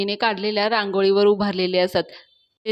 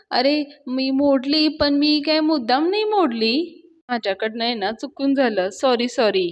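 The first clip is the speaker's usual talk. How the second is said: mildly nervous confession; 3 semitones higher than usual. Retold or imitated. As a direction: own up with a touch of fear. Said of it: "अण्णा थोडे घाबरल्यासारखे बोलत असतात". (थोडं घाबरल्यासारखी कबुली)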